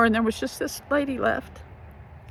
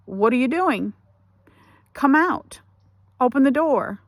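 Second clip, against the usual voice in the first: mildly raised retold shout; urgent demand; 4 semitones higher, 3 dB louder than usual. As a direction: imitate a sister calling through a door. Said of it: "she was beating on the door".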